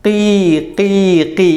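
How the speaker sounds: teacher's demonstration of chick cheeping; imitated chick cry. Shown as a demonstration. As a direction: mimic a crying baby bird. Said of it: "ഫർഹിൻ്റെ ശബ്ദം ഒന്ന് പറഞ്ഞാണി".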